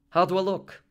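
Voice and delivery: high, loud, excited asking; eager question. A narrator's reading. Molly asking her husband how she looks, eagerly. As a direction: ask brightly, pitched well up.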